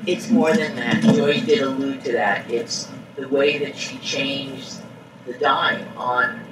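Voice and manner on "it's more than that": repeated louder so the room hears; louder repeat for the back of the room; louder on request. Real, not acted. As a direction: speak up after being told louder.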